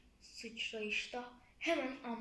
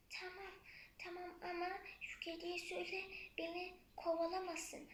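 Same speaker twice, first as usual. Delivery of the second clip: a tiny timid mouse answering; little mouse voice; 6 semitones higher than usual. Acted. The mouse answers the flea in a high little voice.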